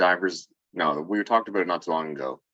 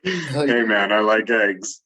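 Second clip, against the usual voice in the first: pickup line voice; 3 semitones higher, 4 dB louder, slower than usual. Pretend. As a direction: deliver it like a cheesy pickup line. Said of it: "That's definitely a pickup line".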